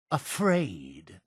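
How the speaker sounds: soft, low, questioning echo; quiet disbelief. Acted. Accused of being afraid, quiet disbelief. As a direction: echo the word softly, lifting at the end.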